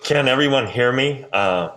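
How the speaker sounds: speaking through a face mask; muffled, mask over the mouth. Real, not acted. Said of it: "hear me through my mask".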